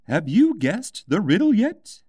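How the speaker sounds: a mad hatter posing a riddle; lightly voiced eccentric Hatter. A narrator's reading. Hatter asks.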